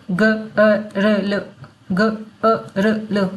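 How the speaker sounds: ग-अ-र-ल very slowly, one sound at a time. Shown as a demonstration. Teacher spelling out girl by sound, slow and segmented. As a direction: split the word into four separate sounds.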